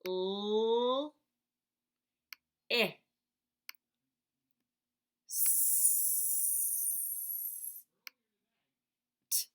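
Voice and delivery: "l, I, s, t" as separate sounds, "s" hissed unvoiced; sounding out letters. Shown as a demonstration. Teacher segmenting list into sounds. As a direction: break "list" into single sounds with pauses. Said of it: "I need".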